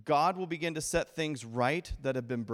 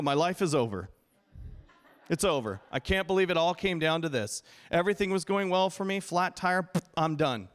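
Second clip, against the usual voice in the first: mock despair; 3 semitones higher, 3 dB louder than usual. Preacher voices despairing believer, flat tire.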